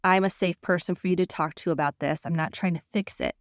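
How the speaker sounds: ordinary talk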